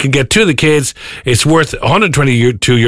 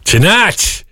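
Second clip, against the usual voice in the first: slow, higher, put-on posh English accent; weird English accent; 4 semitones higher, much slower than usual. Mock English accent for the Star Camp game. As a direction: drag out an old-film English accent, higher. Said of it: "you don't have to do it in a weird English accent".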